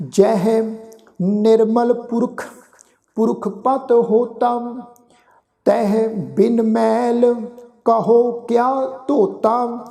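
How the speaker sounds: slow, measured chanting of sacred verse; slow scripture recitation. Acted. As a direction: draw each word out reverently.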